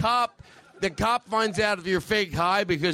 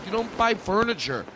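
lightly voiced Boston politician; a touch of mock presidential scolding; John F. Kennedy. President telling people not to buy furniture, light Boston impression. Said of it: "John F. Kennedy ... He was like".

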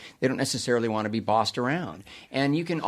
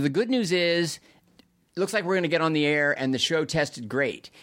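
imitating Mitch; 4 semitones higher than usual. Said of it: "He said".

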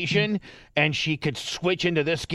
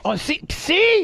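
excited whisper; 6 dB louder, slower than usual. Real, not acted. Host excited at her success.

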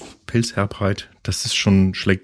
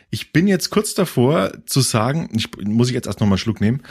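talking around a sip; words between sips; while sipping a drink. Real, not acted. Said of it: "lass mich mal noch mal trinken".

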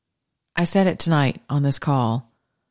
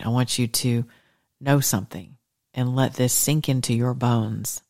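soothing bedtime blessing. Acted. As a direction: lull them toward sleep.

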